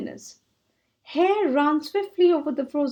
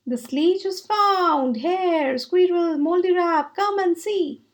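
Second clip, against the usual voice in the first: excited calling; 5 semitones higher than usual. Acted. Grey Rabbit calling friends over.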